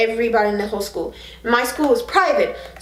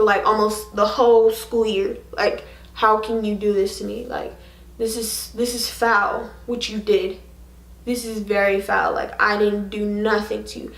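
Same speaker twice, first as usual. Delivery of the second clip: retold hurt. Retold hurt confrontation with ex-boyfriend.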